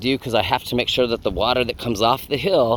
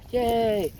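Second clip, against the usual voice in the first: excited cheer; 10 semitones higher than usual. Real, not acted. Cheering the rabbit manure.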